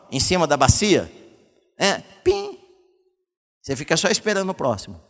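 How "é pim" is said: high little pim like a drop; dripping sound. Shown as a demonstration. Pastor mimicking a drip into a basin, high plink. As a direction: imitate a leak drip into a basin, much higher. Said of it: "goteira quando chove".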